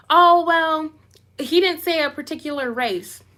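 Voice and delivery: mocking commenters. People in the comments excusing him, mockingly. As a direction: mimic someone making lame excuses.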